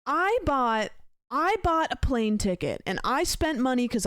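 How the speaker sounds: hyped-up YouTuber voice, punching key words; MrBeast. Acted. Streamer mimics a YouTuber for chat on request, hyped YouTube voice. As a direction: launch into a big video intro with swooping pitch.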